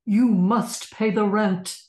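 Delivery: slow, loud, menacing landlord; villain voice. Shown as a demonstration. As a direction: repeat the villain's demand, heavy. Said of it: "you're Snidely right now".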